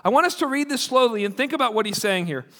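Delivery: ordinary talk, nothing marked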